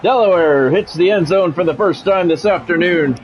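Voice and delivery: measured broadcast call of the down and the drive; sports play-by-play. Acted. Streamer calling his video game to chat, play-by-play announcer voice.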